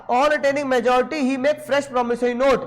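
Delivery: slow dictation pace for students. Shown as a demonstration. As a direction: read out slowly, word by word. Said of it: "क्या बोला?".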